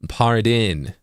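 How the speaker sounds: Pardon ending on a clear eh vowel. Shown as a demonstration. Teaching viewers the East Coast way, Pardon with an eh ending. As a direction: end Pardon with an open eh, par-den. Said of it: "is a very eh sound".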